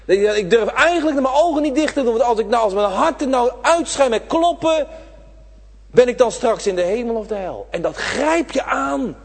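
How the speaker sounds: put-on high, loud, fast panicked child's fear; frightened child. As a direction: speak as a child terrified of dying. Preacher voices a frightened child.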